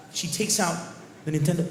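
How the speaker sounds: ordinary talk, nothing marked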